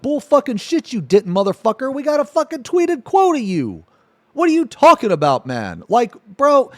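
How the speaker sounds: high, heated mock outburst at Pyro; retold angry retort. Retelling his reply to Pyro, heated and high. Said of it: "And I was like".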